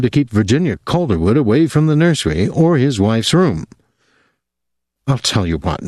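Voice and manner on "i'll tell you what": soothing. A narrator's reading. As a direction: gently coax a troubled woman. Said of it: "he said soothingly".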